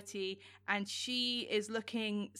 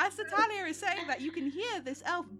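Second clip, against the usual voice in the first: laughing; 6 semitones higher than usual. Real, not acted. GM still laughing.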